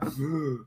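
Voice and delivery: soft mock gasp of shock; imitated crowd gasp. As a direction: suck in air like a stunned crowd. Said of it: "everybody around me was like".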